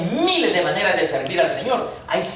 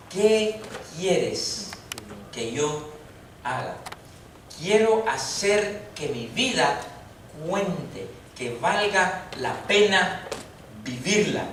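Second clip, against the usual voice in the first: softer, hushed plea that fades away; fearful and trembling; 3 semitones lower, 7 dB quieter, slower than usual. Retold or imitated. Saul, struck by the light, asks the Lord fearfully. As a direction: ask it in awe, barely voiced. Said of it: "él temblando y temeroso dijo".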